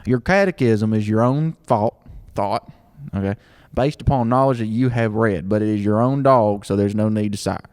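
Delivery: Southern accent. Shown as a demonstration. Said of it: "I'm gonna say it in a Southern accent".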